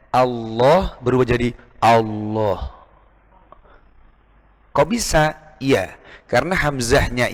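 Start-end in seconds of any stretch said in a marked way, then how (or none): 0.1-2.7 Allah with its first a darkened toward o; a turning heavy. Shown as a demonstration. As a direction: let the a of Allah sink toward o. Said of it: "yang harusnya". (alif Allah jadi tebal)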